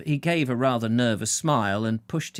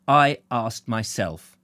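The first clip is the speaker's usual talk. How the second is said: slow, firm, louder insistence; emphatic; 4 dB louder, slower than usual. Acted. Bill takes the blame firmly, emphatic. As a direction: lean on every word. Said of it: "Bill said emphatically".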